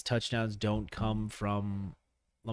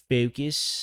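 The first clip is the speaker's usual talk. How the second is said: "focus" with a fronted Philly O; terrible Philly accent; 2 semitones higher than usual. Shown as a demonstration. Podcaster mimicking his own slip, bad Philly accent. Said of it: "Is that a Philly accent?".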